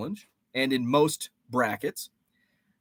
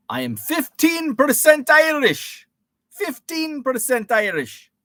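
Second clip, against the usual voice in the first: high, loud proud reveal; excited announcement; 10 semitones higher, 7 dB louder than usual. Real, not acted. Streamer proudly announcing his Irish percentage, excited. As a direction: burst out with the number.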